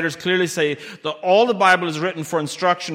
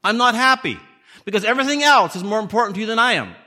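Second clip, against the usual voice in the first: a hint of God's displeasure, pitched higher; displeased God; 5 semitones higher than usual. God telling the people of Judah He is not pleased, upset. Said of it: "God says".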